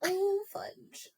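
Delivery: high mock kid voice; Ralphie line. Quoting A Christmas Story to a co-host, high mock kid voice. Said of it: "Hey, fudge".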